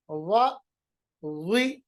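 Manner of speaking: وا and وی said heavy, like تا; thick dha. Shown as a demonstration. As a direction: make the ظ full and thick. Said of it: "تا کی طرح موٹا پڑھیں گے". (وا کو موٹا پڑھیں)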